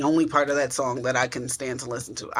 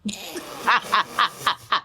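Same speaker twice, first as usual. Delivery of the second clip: phone laugh; 4 semitones higher than usual. Acted. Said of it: "That was too natural".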